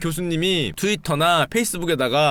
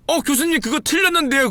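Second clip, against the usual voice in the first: timid student voice; 9 semitones higher than usual. Retold or imitated. Student corrects professor.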